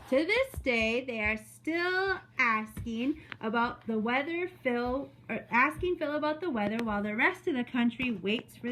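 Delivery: measured, expressive story reading; read-aloud to children. Acted. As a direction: read it to a class of young children. Reads story to second graders.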